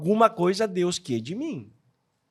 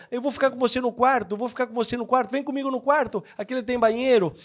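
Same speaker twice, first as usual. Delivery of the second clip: higher, lively calls of eager pilgrims; eager roommate calls; 6 semitones higher, faster than usual. Retold or imitated. Pilgrims at the inn calling to each other, eager and lively. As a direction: call out like everyone grabbing a roommate at once. Travelers grabbing rooms, calling out.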